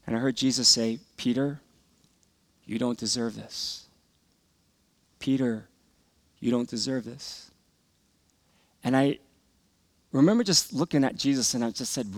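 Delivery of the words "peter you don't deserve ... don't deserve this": soft, voiced imitation of whispering; gentle murmured whisper. Jesus whispering to a beaten boy, softly murmured. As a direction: murmur it into someone's ear, leaving pauses. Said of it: "he's whispering something into my ear".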